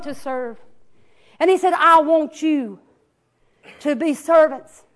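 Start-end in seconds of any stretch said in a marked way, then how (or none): 1.7-4.8 slow solemn quote. Acted. Preacher quoting Jesus solemnly.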